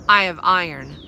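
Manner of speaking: loud, firm declaration; defiant threat. A narrator's reading. Molly warning fairies she carries iron, loud. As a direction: hold them off with it.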